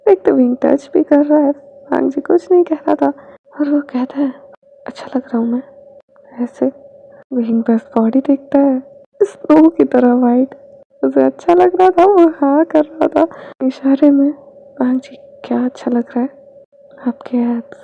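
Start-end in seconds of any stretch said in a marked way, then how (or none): 4.9-6.7 soft whispered question; shy whisper. Acted. Bhang ji shyly asking Wing, whispered. 14.8-17.8 quick soft whisper; teasing whisper. Acted. Wing teasing Bhang ji about his body, quick whisper.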